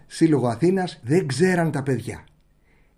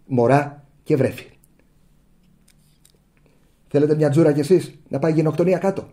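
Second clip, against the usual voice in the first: mock polite answer; 4 semitones lower than usual. Shown as a demonstration. Journalist's model reply to the minister, low and sarcastic. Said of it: "δηλαδή έτσι".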